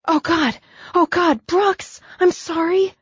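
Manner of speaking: shocked woman crying out sorry; panicked cry. Acted. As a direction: blurt it out in horrified panic. Woman panics after hurting him.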